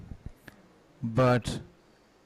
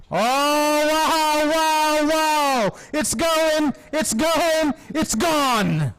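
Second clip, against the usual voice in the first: amazed wow; 12 semitones higher, 5 dB louder, much slower than usual. Real, not acted. Six hit, commentator erupts.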